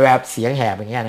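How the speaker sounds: demonstrated hoarse, croaky voice. Shown as a demonstration. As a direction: show what an unpleasant hoarse voice sounds like. (สาธิตเสียงแหบ)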